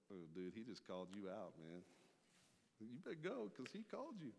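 high, loud ribbing; teasing disciples. Retold or imitated. Fishermen in the boat teasing Peter, high and loud. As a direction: needle a friend who bragged.

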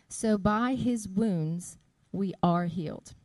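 slow, measured scripture reading; solemn Bible reading. Acted. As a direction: read the verses slowly and with weight. Reads scripture aloud.

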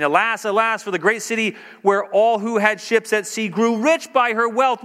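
proclaimed high and loud, crying alas; the merchants wailing over the city, read out loud and high; loud scripture lament. Acted. Shipmasters crying out for the fallen city, loud high lament.

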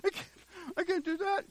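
high, halting little protest; hesitant, high-voiced mock worry; mock reluctant believer. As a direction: pitch it up and balk, haltingly. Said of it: "When you're going".

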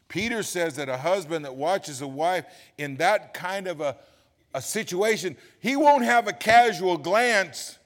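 builds from firm to loud, slowing at the end; swelling preacher's cry; rising preaching shout. Real, not acted.

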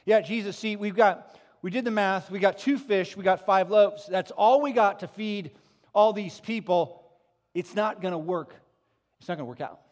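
loud, insistent protest; exasperated disciples. Acted. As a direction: shout the excuses at Jesus. Disciples voiced insisting to Jesus.

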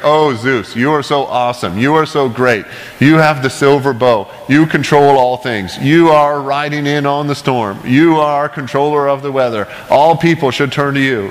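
lightly acted worship of a god; mock praise prayer. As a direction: run on through a list of mock praises. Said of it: "they just go on and on praising and naming the god".

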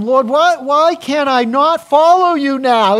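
high, loud, pleading cry, drawn out on the second line; eager plea. Acted. Peter begging Jesus to let him follow, loud high plea. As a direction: beg to follow, voice straining upward. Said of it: "can't you hear him?".

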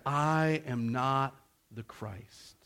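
slow, deliberate, weighty "I am not the Christ"; measured emphatic disavowal; emphatic denial. Retold or imitated. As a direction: deny it emphatically, word by word. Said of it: "John the prophet was emphatic".

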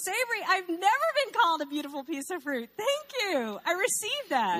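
high, loud, playful thanks; hammed-up delighted acceptance; mock gracious reply. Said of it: "I go".

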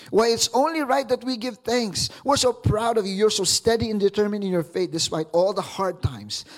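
animated Bible reading; scripture reading. Acted. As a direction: read it with rising joy. Reads scripture, higher and livelier.

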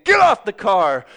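loud angry shout; retold scream. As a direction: bark it at the driver. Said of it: "I was screaming at him".

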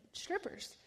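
"Strippers?" breathed out high and whispered in disbelief; a stunned, whispered, rising "Strippers?"; high, whispered double-take on "Strippers?"; shocked disbelief. Acted. Her shocked reply to God.

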